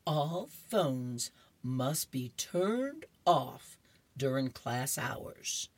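lightly voiced teacher laying down a rule; very slow, measured classroom order. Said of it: "She puts her finger up and said".

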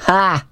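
single high-pitched "Ha"; one short acted laugh, spoken as a word; mock laugh. Norton enjoys Billy's jibe at the girl, short mock laugh. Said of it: "Norton laughed".

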